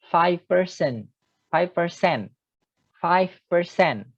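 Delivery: "five percent" with the stress on cent, not "person"; the word "percent" said clearly as per-cent. Shown as a demonstration. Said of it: "bukan person".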